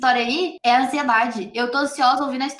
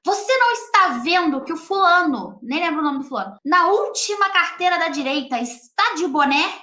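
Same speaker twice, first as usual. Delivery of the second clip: mock scolding; 4 semitones higher than usual. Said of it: "ela chegou gritando".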